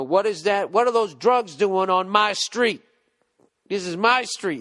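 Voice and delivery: loud, high, slow tough-cop bark; hammed-up street cop claiming his turf; grizzled vet cop. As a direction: lay down the law like a grizzled veteran cop. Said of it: "the fucking grizzled vet cop".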